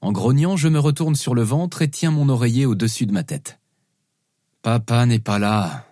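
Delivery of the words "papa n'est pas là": slow, muffled sleepy-dad voice. Acted. Father under his pillow to his daughters, muffled. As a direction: mumble it slowly as if under a pillow. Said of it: "dis-je, ma voix étouffée".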